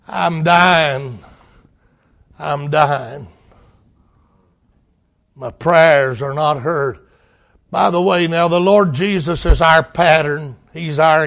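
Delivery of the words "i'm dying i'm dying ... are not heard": dying whisper-like lament. Acted. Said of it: "He said".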